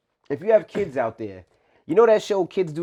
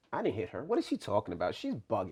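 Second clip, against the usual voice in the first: nonchalant; 4 semitones lower, 9 dB quieter than usual. Retold or imitated. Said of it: "It was so nonchalant".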